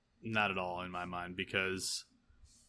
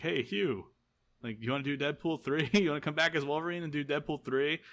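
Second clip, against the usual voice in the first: calling across the room to Hugh, raised and higher; mock call out; 5 semitones higher than usual. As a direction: call out to a friend, playful and raised. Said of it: "he just yells out".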